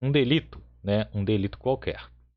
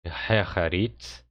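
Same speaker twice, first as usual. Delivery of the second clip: slow demo; 4 semitones lower, much slower than usual. Shown as a demonstration. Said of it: "Você tem aqui".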